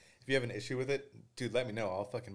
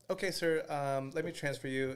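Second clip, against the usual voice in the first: mock polite rep; 6 semitones higher than usual. Bank rep answering on phone.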